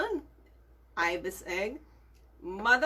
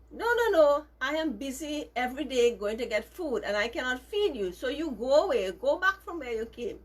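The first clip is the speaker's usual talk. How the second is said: firm refusal; 4 semitones higher, 3 dB louder than usual. Acted. Ibis mother refuses the baby.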